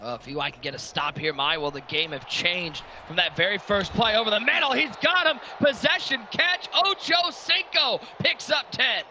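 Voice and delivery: excited football commentator, rising and stretching the words; live play-by-play. Real, not acted. Announcer calling a big catch to viewers, building play-by-play.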